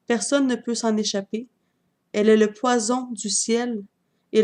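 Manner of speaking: measured poem recital with pauses between lines; poem reading. Acted. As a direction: read your love poem aloud, line by line.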